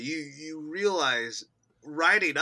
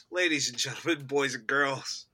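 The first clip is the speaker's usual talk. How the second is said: ringmaster. Acted. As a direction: call out like a circus ringmaster. Mock grand show opening.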